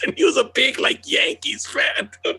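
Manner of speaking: real laughter breaking into the words; cracking up mid-sentence; laughing through words. Real, not acted. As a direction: laugh while you tell it. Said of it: "laughing while telling".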